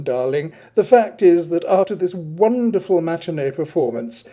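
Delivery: lightly voiced grand aesthete warning; mock-solemn dandy. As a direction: play a theatrical mother hen. Adrian lectures mock-solemnly.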